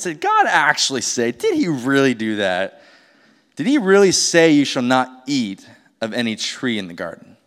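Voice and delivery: sly, questioning lilt, leaning on God and really; doubting serpent inflection. Retold or imitated. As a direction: coax her into doubt, innocent-sounding. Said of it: "notice, like, the inflection in my voice".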